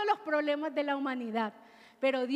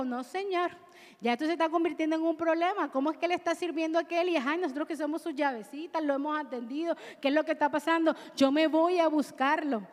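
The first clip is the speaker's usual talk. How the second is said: lightly voiced, fast, fussing Marta; preacher playfully voicing Marta's fretful complaint, fast and light; jocular Marta; faster than usual. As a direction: rattle it off like a flustered busy hostess. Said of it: "Te lo digo jocosamente".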